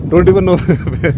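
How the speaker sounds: laughing through the words. Real, not acted. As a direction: giggle at your own confusion. Embarrassed, laughing at himself.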